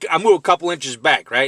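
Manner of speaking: ordinary delivery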